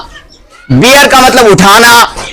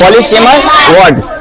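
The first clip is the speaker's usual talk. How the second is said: Polysemous drawn out syllable by syllable; slow classroom repetition; slow teaching demo; much slower than usual. Shown as a demonstration. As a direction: model the term very slowly for students. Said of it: "यानी एक word माना कितने हो".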